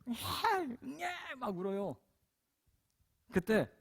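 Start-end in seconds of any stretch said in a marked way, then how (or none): 0.1-1.3 high wailing baby cry, mimicked; imitated baby crying. Preacher mimics the baby in the basket, high wailing cry. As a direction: squeal it like a newborn wailing. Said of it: "아이가 막 울기 시작하는 거예요".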